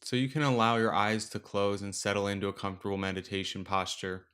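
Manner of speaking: unhurried meditation guide, long pauses between phrases; guided meditation. Acted. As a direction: gently lead listeners through the breath, leaving space after each instruction. Leads a breathing meditation.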